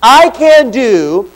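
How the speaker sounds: slow, deliberate verse reading. Shown as a demonstration. Pastor to congregation, slow deliberate reading. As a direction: read it slowly so they can follow. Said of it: "I'll read it first".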